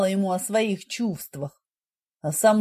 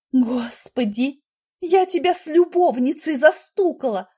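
she catches him cheating and lets it out; accusing wife raises her voice; raised voice; 6 semitones higher, 3 dB louder than usual. A narrator's reading. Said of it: "повысила голос девушка".

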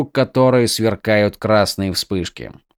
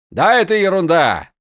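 offhand soldier; 6 semitones higher than usual. Acted. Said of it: "бросил Шрам".

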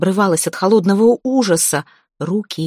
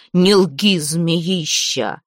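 angry hiss; much slower than usual. Acted. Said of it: "злобно прошипел голос".

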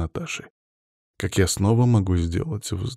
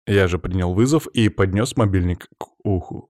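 ordinary delivery, nothing marked

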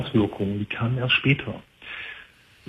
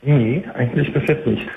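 hands-free phone; 3 semitones higher than usual. Real, not acted. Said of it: "es klingt nicht so sauber".

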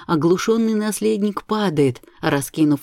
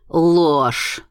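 sharp shriek; 4 dB louder than usual. Acted. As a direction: shriek the word out. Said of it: "взвизгивает она".

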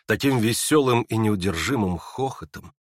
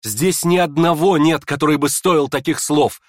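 bursting out; 4 semitones higher, 5 dB louder than usual. Acted. Aglaya to the prince, passionate outburst. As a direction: burst out defending him. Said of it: "разразилась Аглая".

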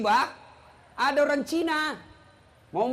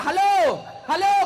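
loud calls, higher; shouting into phone; 4 semitones higher, 5 dB louder than usual. Retold or imitated. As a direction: yell halo into a dead phone. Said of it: "Dia teriak".

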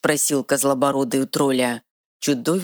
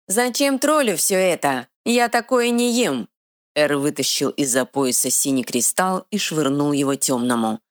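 defiant troll; 5 semitones higher than usual. Acted. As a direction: spit it out like a simple stubborn troll. Troll answers proudly.

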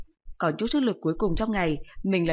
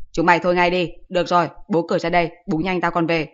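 loud call over the brawl, then quicker; exasperated louder yell; shouting to stop; 5 dB louder than usual. Acted. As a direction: yell at the kids to quit fighting. Boy shouts fighting kids to stop.

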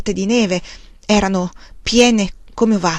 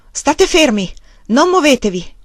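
raised, higher calling voice; shouted warning; 6 semitones higher, 3 dB louder than usual. A narrator's reading. Woman warning the man through the stovepipe, calling out. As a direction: call out a command, moderately loud. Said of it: "gridò".

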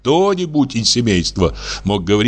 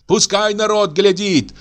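much higher defiant cry; angry shout; 11 semitones higher than usual. A narrator's reading. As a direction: let the crowd hear. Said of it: "кричала Аксинья". (гораздо выше, вызывающий крик)

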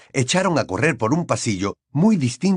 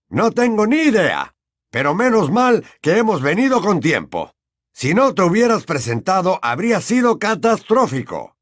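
higher, louder anxious wizard; anxious hurry; 8 semitones higher, 4 dB louder than usual. Acted. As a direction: rush out worried words.

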